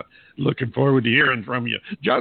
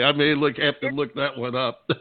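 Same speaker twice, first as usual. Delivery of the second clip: laughing. Real, not acted. Amused by a punk Muppets cover.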